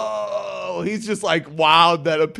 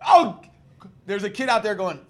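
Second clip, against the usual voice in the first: put-on whiny coach griping about a kid; mock Little League coach; 7 semitones higher than usual. Podcast host mocking coach complaining about a kid. Coach voiced in retold story.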